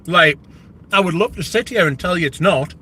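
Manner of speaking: talking with mouth half full. Real, not acted. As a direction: speak through a half-chewed bite. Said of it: "I'm talking with my mouth half full".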